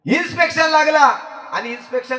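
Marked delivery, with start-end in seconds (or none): 0.0-1.0 higher and louder, stretching लागला; emphatic repeat. Shown as a demonstration. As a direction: announce it to the crowd. Storyteller repeats line for emphasis.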